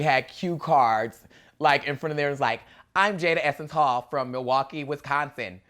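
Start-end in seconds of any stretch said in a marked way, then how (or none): 3.0-5.6 stiff, slow, robotic delivery. Retold or imitated. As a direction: read it like a nervous robot. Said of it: "so robotic".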